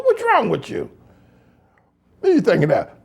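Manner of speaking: high-pitched what's wrong with you; mock incredulous rebuke. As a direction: scoff at the idea.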